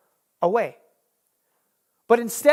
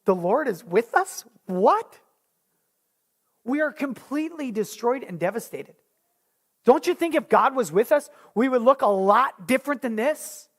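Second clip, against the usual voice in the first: scoffing disbelief, slightly raised; incredulous Gideon; 3 semitones higher than usual. Acted. Gideon scoffing at the angel in mild disbelief. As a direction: scoff at the claim. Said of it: "Gideon's like".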